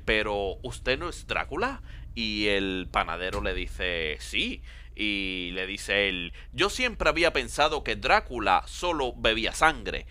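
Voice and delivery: slow, put-on Castilian accent; Spanish accent. Baker and Dracula talking in a joke, Spanish accent. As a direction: draw the joke out in a mock Spain accent. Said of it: "ah, oh, con acento español".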